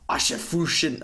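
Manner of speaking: a badly faked German accent; clumsy mock German. Mocking the German dub line to a friend, in clumsy fake German. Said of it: "That was terrible. That was not a good German interpretation".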